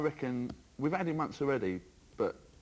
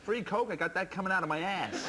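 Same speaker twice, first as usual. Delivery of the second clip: McEnroe tantrum; 4 semitones higher than usual. Acted. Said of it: "McEnroe getting in a tiz".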